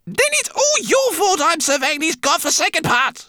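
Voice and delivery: high, sharp irritated snap; snappish rat voice. Acted. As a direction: snap through gritted teeth. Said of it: "she snapped".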